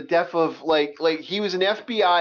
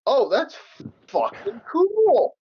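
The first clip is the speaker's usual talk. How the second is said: high, drawn-out admiring gush; awed excitement; 8 semitones higher, slower than usual. Acted. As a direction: act out a wowed viewer, stretching it out. Acts viewer's awed reaction.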